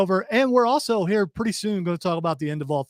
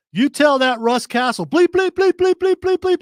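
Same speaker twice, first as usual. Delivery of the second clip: angry caller; 9 semitones higher, 5 dB louder than usual. Retold or imitated. Retold angry caller on phone.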